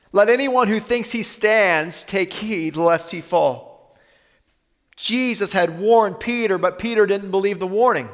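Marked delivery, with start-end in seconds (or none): 0.1-4.0 "Let anyone who thinks he stands take heed lest he fall" said slowly, every word weighed; slow, deliberate preacher's repeat; slow, weighty repeat. Shown as a demonstration. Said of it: "Therefore, let anyone who thinks he stands".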